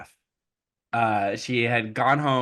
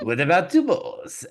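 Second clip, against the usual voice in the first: put-on high-pitched French accent; French stepmother; 6 semitones higher than usual. Stepmother raising the task for Cinderella, French accent. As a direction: stall with a French-accented counteroffer. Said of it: "so she's French".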